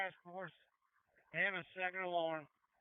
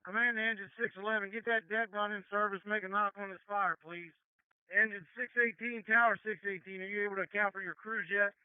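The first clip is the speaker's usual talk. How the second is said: firefighter shouting through mask; 2 semitones higher, 5 dB louder than usual. Real, not acted. Chief calling orders over radio.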